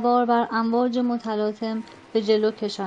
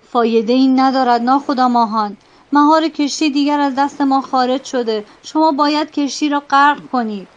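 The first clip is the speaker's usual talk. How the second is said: louder, curt insistence; sharp retort; 6 dB louder than usual. Acted. Boatswain telling the captain to sink the ship, sharp and loud. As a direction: snap back at the captain. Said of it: "به تندی گفت".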